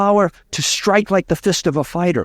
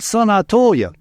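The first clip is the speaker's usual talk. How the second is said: put-on higher-pitched Cajun accent; wise Cajun farmer; 6 semitones higher than usual. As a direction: explain it as the old Cajun farmer. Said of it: "The wise Cajun farmer looked at him and said".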